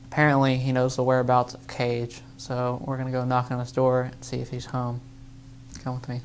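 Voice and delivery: hushed sneaking voice; whispering. Acted. Sneaking to the door.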